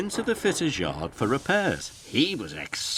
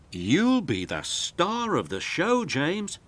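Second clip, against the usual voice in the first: light toot of Thomas; 8 semitones higher than usual. A narrator's reading. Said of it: "tooted Thomas".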